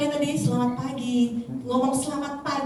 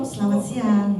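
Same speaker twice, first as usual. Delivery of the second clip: smiling voice; 4 semitones lower, slower than usual. Shown as a demonstration. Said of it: "Ibu juga senyum".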